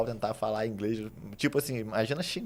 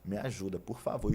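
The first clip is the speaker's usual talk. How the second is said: almost crying; 5 dB quieter, slower than usual. Retold or imitated. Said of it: "E quase chorando assim".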